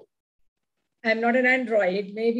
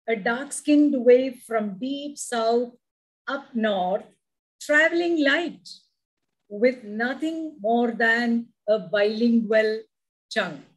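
slow, deliberate poetic reading; poem recitation. Acted. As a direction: savour each line of the poem.

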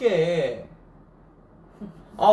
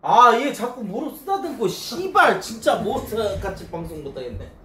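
exasperated outburst; 5 semitones higher than usual. Real, not acted. Exasperated complaint to viewers.

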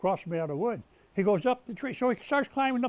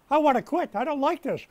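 retold resolve; 5 semitones higher, 5 dB louder than usual. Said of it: "And I said".

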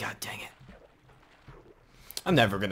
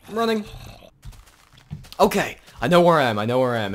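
high loud breathless shouting; yelling while running away; 8 semitones higher, 9 dB louder than usual. Real, not acted. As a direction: yell it on the run.

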